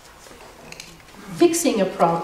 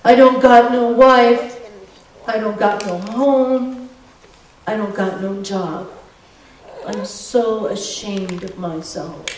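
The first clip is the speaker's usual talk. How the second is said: put-on crying drunk. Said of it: "the big man began to cry".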